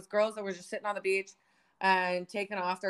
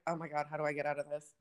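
panicked inner thought; 5 semitones lower, 7 dB quieter, faster than usual. Retold or imitated. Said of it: "I looked at it and I was like".

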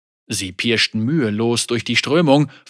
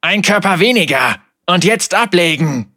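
louder, higher, angry order; snarled command; 4 semitones higher, 6 dB louder than usual. Acted. Captain who just killed a man ordering cast-off, snarled command. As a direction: spit the order out fiercely. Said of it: "fauchte er".

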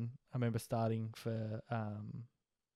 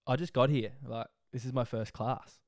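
put-on Australian accent. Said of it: "I sounded super Aussie".

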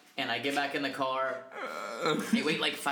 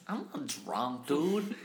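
put-on drunk denial; slower than usual. Drunk friend denying he is drunk, slurred. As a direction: mumble it like a drunk insisting he's sober. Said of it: "You're that fucking drunk".

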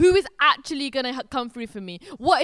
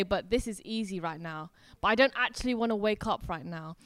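low, softened mock reluctance; reluctant excuse; 5 semitones lower, 8 dB quieter than usual. Preacher voicing the flesh's excuses, low and reluctant. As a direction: lightly act out dragging your feet.

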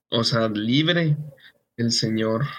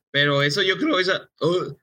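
cracking voice, slightly higher; 3 semitones higher than usual. Real, not acted. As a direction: voice keeps breaking. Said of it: "¿lo escuchaste otra vez?". (voz quebrada)

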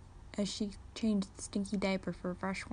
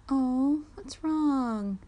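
put-on higher, louder coo to a baby; drawn-out sympathetic baby talk; soothing concern; 5 semitones higher, 5 dB louder, much slower than usual. A narrator's reading. Soothing a baby starting to cry.

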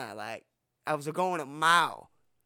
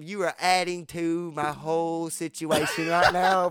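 slow, louder exasperated yell; mock yell; 3 dB louder than usual. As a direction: yell it at your buddy slowly. Yelling at Brian in retold quote.

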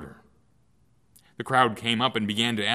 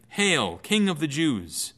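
slow, drawn-out mock salute; 5 semitones higher, 3 dB louder, slower than usual. Soldiers mock Jesus with a slow, sneering hail. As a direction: sneer it as a fake homage. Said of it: "and mocked him by saying".

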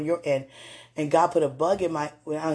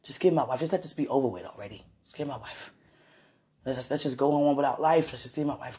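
pleading plea; 2 semitones lower, 4 dB quieter than usual. Retold or imitated. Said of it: "your heart makes that sound".

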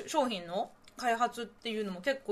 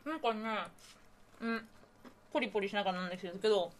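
crunching granola. Real, not acted.

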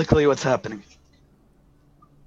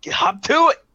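high, loud, impatient command; shouted order; 13 semitones higher, 6 dB louder than usual. A narrator's reading. Director sending crewman running, impatient shout. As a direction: yell it to get them running.

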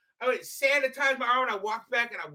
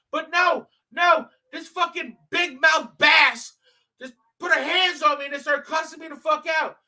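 heated rant; 2 semitones higher than usual. Real, not acted. Heated rant about his face.

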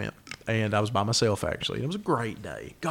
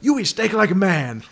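put-on slow, higher Brazilian accent; a hammed-up Brazilian chef, impressed; slow mock Brazilian accent; 7 semitones higher, 6 dB louder than usual. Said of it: "killer Brazilian accent".

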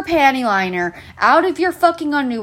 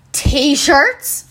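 mimicking a customer's pointed question; customer with attitude; 4 dB louder than usual. Customer answering the worker's question, mock attitude. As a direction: toss it back as a loaded question, mockingly. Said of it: "Whole attitude and everything".

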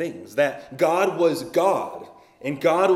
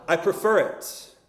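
firmer and louder; 3 semitones higher than usual. Retold or imitated. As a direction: stronger second time. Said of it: "And then louder".

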